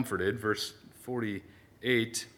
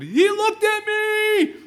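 scared; 8 dB louder, much slower than usual. Pretend. Imagined scene on the boat.

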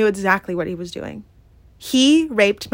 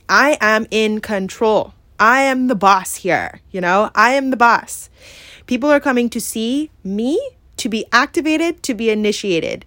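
self-affirmation. Real, not acted. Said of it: "I need to say this to myself".

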